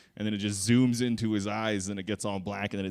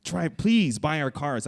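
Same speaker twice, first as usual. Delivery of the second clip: slow, louder begging slogan; mock pleading ad; 6 semitones higher, 5 dB louder, slower than usual. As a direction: beg the buyer, drawn out.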